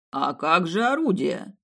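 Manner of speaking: slow, disappointed plea; upset. Acted. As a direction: let the disappointment show. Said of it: "как-то расстроенно сказал жрец".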